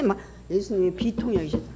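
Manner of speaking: ordinary talk, nothing marked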